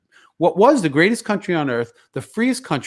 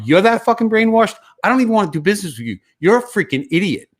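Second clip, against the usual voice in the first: higher, heated, scornful rebuke; indignant telling-off; 6 semitones higher, faster than usual. Retold or imitated. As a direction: tell him off as if he were here. Imagined telling-off of the man.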